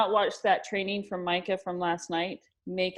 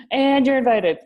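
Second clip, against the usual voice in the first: excited invite; 5 semitones higher, 8 dB louder than usual. Real, not acted.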